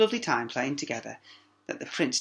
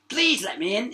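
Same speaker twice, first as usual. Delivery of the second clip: higher, louder frog; calling frog; 9 semitones higher, 5 dB louder than usual. A narrator's reading. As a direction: call through the door. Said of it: "it called".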